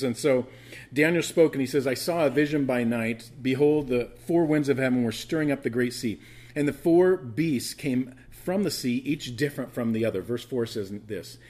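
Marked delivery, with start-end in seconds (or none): 0.0-10.2 loud, proclaimed Bible reading; projected pulpit reading; scripture reading. Acted. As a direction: read the verse out strongly to the congregation. Reads scripture aloud to congregation.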